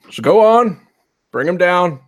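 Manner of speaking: put-on old marshal. Old marshal facing down the preacher, firm and high. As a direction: calmly overrule the preacher, slowing at the end.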